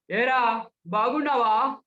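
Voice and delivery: slow, stately, drawn-out greeting; grave, imposing voice. Shown as a demonstration. Speech trainer demonstrates a greeting, grave and imposing. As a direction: draw it out with gravity. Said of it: "ఇప్పుడు స్వరం గంభీరంగా".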